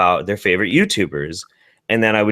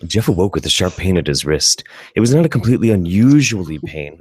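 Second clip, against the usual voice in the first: narrator voice; 3 semitones lower than usual. Acted. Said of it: "doing your best narrator voice".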